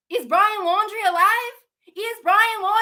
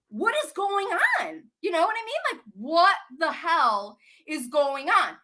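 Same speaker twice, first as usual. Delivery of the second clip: ordinary talk, nothing marked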